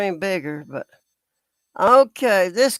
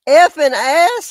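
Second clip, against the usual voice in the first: incredulous echo; 4 semitones higher, 5 dB louder than usual. Real, not acted. Echoing the commenter's words in disbelief.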